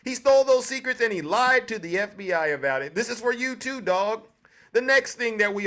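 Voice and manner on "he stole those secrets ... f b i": forceful. Real, not acted. Telling Truck he stole those secrets, forceful. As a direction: hammer it home to Truck.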